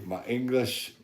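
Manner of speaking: trying out an English accent; tentative go at English accent; attempted English accent. Shown as a demonstration. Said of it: "English accent".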